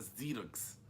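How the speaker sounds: "Xerox" said slowly with a Z sound, Zirox; American Xerox. Shown as a demonstration. Teacher giving the US pronunciation, slow "Xerox" with an initial Z. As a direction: start "Xerox" with a Z, not the Portuguese sh. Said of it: "põem literalmente o Z no lugar do X".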